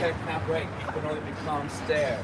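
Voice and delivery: lightly voiced comedian impression; a subtle, spot-on stand-up comic impression; Mitch Hedberg. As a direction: deliver it lightly as an impersonated stand-up bit. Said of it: "your impression was excellent".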